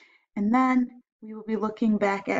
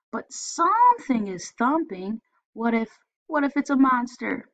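put-on scared boy; 4 semitones higher, 3 dB louder than usual. Scared boy fears monster.

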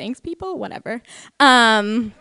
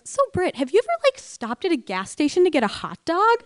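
mom voice; 5 semitones higher than usual. Retold or imitated.

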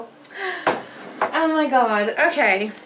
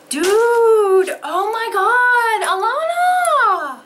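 overjoyed, near tears; 6 semitones higher, slower than usual. Real, not acted. Reading the gift from Alana, she squeals, tearful and overjoyed. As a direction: squeal it out, laughing and crying. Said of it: "I'm so excited".

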